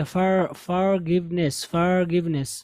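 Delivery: "forgiveness" run together quickly; teacher demonstrating quick "forgiveness"; quick demo. Shown as a demonstration. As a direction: say "forgiveness" fast and smooth. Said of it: "इसको आप जल्दी से पढ़ेंगे".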